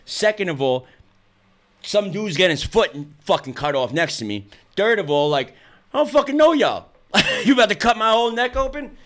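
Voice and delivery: high-pitched, half-joking replay of alarm; retold pre-surgery panic. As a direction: pitch climbing into incredulous protest. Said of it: "I started crying before I went in".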